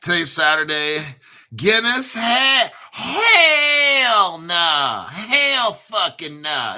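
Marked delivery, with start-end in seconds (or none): 2.9-5.1 loud, high Hell nah, hammed up; mock inmate shout. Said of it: "That's what the inmates used to say". 5.1-6.8 defiant inmate. Retold or imitated. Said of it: "That's what the inmates used to say".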